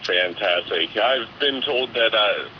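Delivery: nasal, monotone voice; flat and nasal, no lilt. Real, not acted. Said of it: "It is both of those things".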